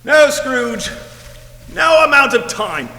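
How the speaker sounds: raspy ghost voice. Acted. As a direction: warn him like a doomed spirit. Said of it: "this raspy voice".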